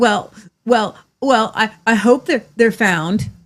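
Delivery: stammering, halting, forced fake concern and distress. Imitating a man told he shows no emotion: imitating someone faking emotion. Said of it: "And he starts to go like this".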